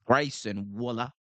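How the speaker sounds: Waller said the Australian way, as Wullah; Aussie accent. Shown as a demonstration. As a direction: give Waller an Aussie vowel and drop the r. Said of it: "Gotta get the Aus-, the Aussie accent".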